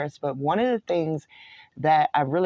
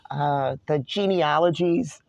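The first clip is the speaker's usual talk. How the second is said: voice cracking. Real, not acted. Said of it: "I lost my voice there a little bit".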